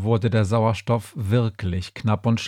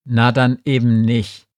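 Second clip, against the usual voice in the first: louder, huffy comeback; snappish retort; 5 dB louder than usual. Acted. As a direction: throw it back, miffed. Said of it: "blaffte Harold".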